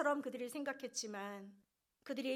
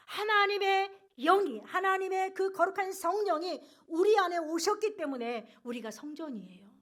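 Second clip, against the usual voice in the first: high, loud scripture proclamation; ringing, emphatic pulpit voice; impassioned preaching; 5 semitones higher, 8 dB louder than usual. Real, not acted. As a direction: declaim the verse to the congregation. Declaims scripture and expounds it.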